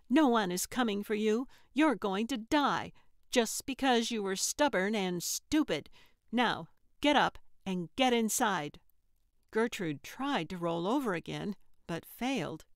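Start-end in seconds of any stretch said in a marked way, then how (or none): 0.1-8.8 bully her into obeying; threatening. Acted. Trixie threatening Gertrude on the ground, fast angry orders.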